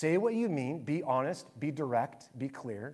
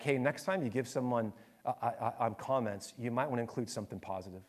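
subdued, defeated parting advice, trailing softer; retold defeat; 3 semitones lower, 5 dB quieter, faster than usual. Hurt pastor advising his young critic at the door, mildly defeated. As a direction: imitate a hurt pastor, lower and hesitant, fading away. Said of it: "you could just tell he was so defeated".

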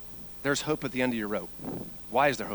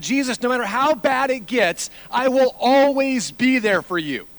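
acted Peter's vow; 13 semitones higher, 11 dB louder than usual. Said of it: "Peter rises up and said".

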